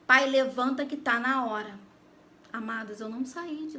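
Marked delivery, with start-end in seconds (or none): 0.0-1.8 slow, firm call to wake him; loud slow wake-up call. Retold or imitated. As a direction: call him up loudly, drawn out. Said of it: "bem alto".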